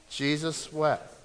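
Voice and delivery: measured, so others can say it along; leading a recitation. Shown as a demonstration. Preacher has congregation repeat the shortest verse, slow recitation. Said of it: "Say it with me".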